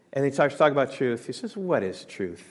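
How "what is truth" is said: mocking. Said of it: "He was mocking Jesus about truth".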